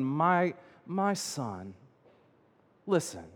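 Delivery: put-on gentle, understated appeal to a child; endearing father. Father coming out to the older brother, gently endearing. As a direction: say it as a tender, patient father. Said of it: "he calls him this endearing word for son".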